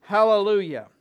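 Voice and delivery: loud, high amen and hallelujah; cried out. Retold or imitated. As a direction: proclaim it like worshipping elders. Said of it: "and they cried".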